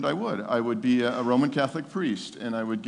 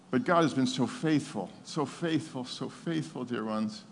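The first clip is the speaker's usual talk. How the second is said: heartfelt thanks; 4 dB quieter than usual. Real, not acted. Tender testimony to congregation.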